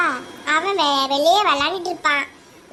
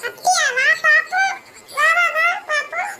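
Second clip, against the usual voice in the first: much higher, louder mocking dare; taunting dare; 9 semitones higher, 5 dB louder than usual. Child daring his sibling in a quarrel, loud taunting. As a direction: goad them to come and try.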